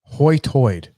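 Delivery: "Hoy-toid" with rounded OY vowels; high tide turned into "Hoy-toid"; island pronunciation. Retold or imitated. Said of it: "that's how they say high tide".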